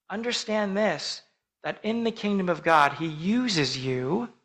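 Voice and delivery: normal talking voice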